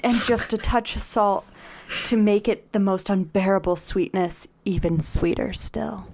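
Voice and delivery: measured, overwrought romance narration; dramatic romance reading. Acted. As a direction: savour each phrase with mock reverence. Reads the book passage dramatically.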